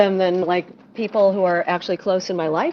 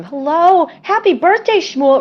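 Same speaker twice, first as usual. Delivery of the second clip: high, sing-song Australian birthday wish with birthday pitched way up; hammed-up Australian happy birthday; Australian accent, lightly put on, greeting a birthday guest; mock Australian accent; 9 semitones higher, 5 dB louder than usual. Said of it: "That's where it comes from".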